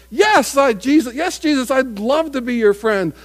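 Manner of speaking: shouted, high and eager acceptance; excited Zacchaeus. Acted. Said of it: "Zacchaeus says".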